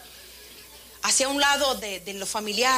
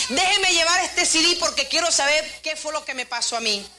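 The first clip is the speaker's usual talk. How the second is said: lightly acted pleading, raised pitch; imitated tearful plea; 4 semitones higher than usual. Man asks singer to lend him the CD, imitated tearful plea. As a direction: plead as if still moved to tears.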